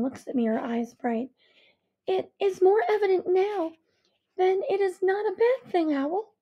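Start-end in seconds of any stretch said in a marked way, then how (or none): 2.1-6.3 higher, insistent mother; fierce mother. A narrator's reading. Mother insisting to her daughter that the change is good, fierce. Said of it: "she says fiercely".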